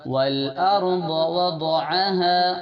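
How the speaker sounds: وَضَعَهَا with a thick heavy ض, chanted; heavy daad. Shown as a demonstration. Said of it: "ضاد کی آواز موٹی ہونا ہے".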